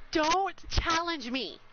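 slow, deliberate challenge; slow, emphatic dare-back; emphatic warning. Real, not acted. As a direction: draw out each word as a warning. Answering a dare.

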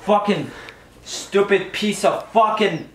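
real, seething frustration; pissed off. Real, not acted. Player answering a friend who asks if he's mad, pissed off. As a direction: spit out each curse in anger. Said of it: "I'm fucking pissed off".

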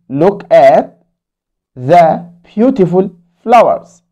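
the beautiful flowers read very slowly; slow story reading. Acted. Teacher reading Hana's line to kids. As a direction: read it slowly for young learners.

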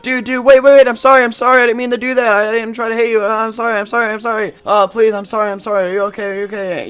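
high, loud, frantic apology; yelling apology. Retold or imitated. Shouting after the crying kid, frantic high apology. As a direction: call after the kid, desperate to say sorry. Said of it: "so I just started yelling to him".

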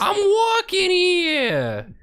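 high, drawn-out holler at a driver; hammed-up street shout; indignant mock yell. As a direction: bellow it out slowly like an outraged pedestrian. Acting out pedestrian yelling at a driver.

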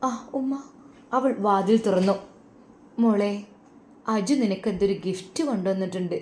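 storyteller reading a family tale aloud; story narration. A narrator's reading. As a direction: tell it gently to listeners. (കഥ പറയുന്ന ശൈലി)

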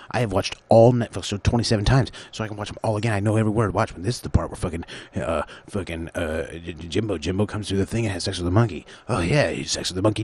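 hammed-up eager binge-watcher; excited binge-watcher. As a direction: rattle it off like an overexcited fan. Playing carefree binge-watcher.

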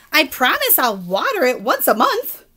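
lightly voiced earnest pigeon; pigeon promising. Pigeon promising to care for the puppy, mildly earnest. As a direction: promise it a bit too eagerly.

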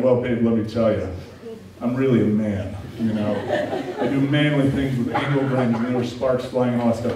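a laughing, puffed-up boast to his wife; mock bragging. Husband brags to his wife about grinding, mock swagger. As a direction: brag like a big man, half joking. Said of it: "I'm bragging and saying".

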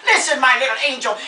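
grande dame coaxing a little one; theatrical old star. Acted. Old star calling her little angel over, theatrically coaxing. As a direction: coax with theatrical, motherly insistence.

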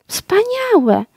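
an excited little cry of wonder, voice jumping up; high-pitched court chaplain exclaiming in delight; delighted exclamation. A narrator's reading. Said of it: "zawołał na to przyboczny".

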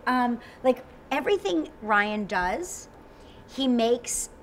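ordinary delivery

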